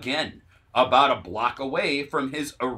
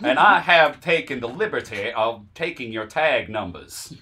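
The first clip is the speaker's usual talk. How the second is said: put-on louder genteel Southern accent; lightly voiced Southern gentleman; 5 dB louder than usual. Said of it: "talks like a Southern gentleman".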